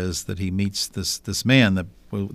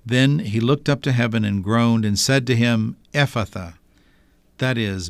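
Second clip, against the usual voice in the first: measured, solemn liturgical reading; Gospel reading. Acted. Bishop proclaims the Gospel reading.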